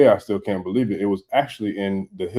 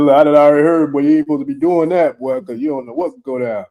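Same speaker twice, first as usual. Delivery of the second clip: loud retold warning; 6 semitones higher, 6 dB louder than usual. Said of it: "I said".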